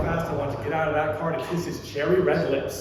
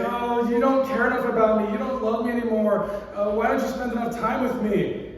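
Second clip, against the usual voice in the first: put-on whiny girlfriend; 5 semitones higher than usual. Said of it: "she's saying".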